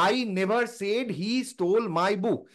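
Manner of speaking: each word drawn out slowly, "never" given the main weight and a falling tone; slow stress demo. Shown as a demonstration. Showing the listener how word stress changes meaning, slow and deliberate. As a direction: present "I never said he stole my book" slowly, hitting never. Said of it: "শব্দের ওপরে যদি আমি জোর দিয়ে কথা বলি".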